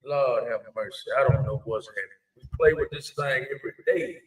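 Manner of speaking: echoey room sound; slight echo on the mic; echoing bathroom. Real, not acted. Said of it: "you just sound like a little echo with you".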